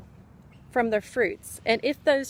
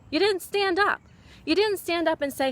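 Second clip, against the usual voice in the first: rising, higher indignant scolding; angry reproach; 5 semitones higher than usual. Real, not acted. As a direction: call them out for not standing up. Scolding her audience for inaction.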